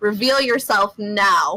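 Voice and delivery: in-character call-out thrown backward over the shoulder. Voicing a character who calls out over a shoulder to a follower: hollering in character. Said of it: "holler over my shoulder".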